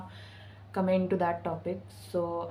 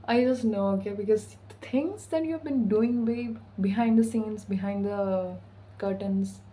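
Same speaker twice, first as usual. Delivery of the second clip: put-on teasing Armenian accent pitched up; 3 semitones higher, 3 dB louder than usual. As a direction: hype the viewer up in a sassy Armenian accent. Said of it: "I'm talking like in the Armenian, Armenian accent".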